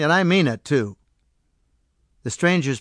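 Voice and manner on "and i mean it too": firm, raised insistence; a firm, raised "and I mean it". Acted. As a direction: stress "mean", standing your ground. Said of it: "George repeated firmly".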